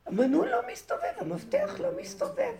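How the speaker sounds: very high frustrated whine; strained high complaint. Retold or imitated. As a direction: squeal at the stuck key. Retelling stuck lock again. (יללה גבוהה ומתוסכלת על המפתח)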